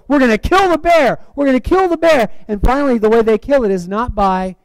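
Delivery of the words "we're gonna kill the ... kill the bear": high-pitched, forceful battle chant; imitated shouting. Preacher acting the two men shouting it back and forth, fired up. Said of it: "there's, like, shouting it back and forth".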